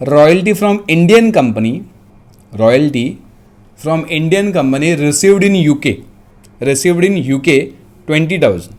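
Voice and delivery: measured dictation with pauses; dictating. Real, not acted. Teacher dictating a question to students, dictation voice. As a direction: dictate phrase by phrase. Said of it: "मैं dictate कर रहा हूँ".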